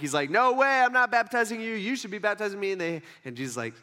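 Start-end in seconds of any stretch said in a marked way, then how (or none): 0.3-2.7 louder, higher protest; pushing back. Acted. John the Baptist objecting to Jesus, protesting firmly. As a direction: refuse emphatically, acting it out. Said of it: "John the Baptist even pushes back".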